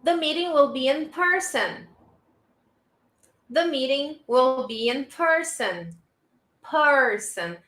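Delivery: careful "person" with an r-coloured "er" in "per"; model pronunciation. Shown as a demonstration. Teacher asks students to repeat with me, careful model pronunciation. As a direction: model "person" as "PUR-sn" for repetition. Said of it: "repeat with me".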